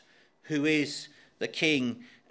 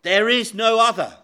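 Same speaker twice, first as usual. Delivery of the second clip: louder, insistent declaration; a firm, louder ruling; emphatic; 4 semitones higher, 6 dB louder than usual. Shown as a demonstration. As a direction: proclaim it with weight. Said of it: "he is emphatic".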